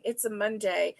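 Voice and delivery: mild gruff imitation, said quietly; gruff commercial lady. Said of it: "with her gruff voice".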